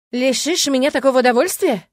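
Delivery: hammed-up hurt exclamation; mock indignation. A narrator's reading. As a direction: pretend to be offended, teasing. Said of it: "притворно негодуя воскликнул Фил".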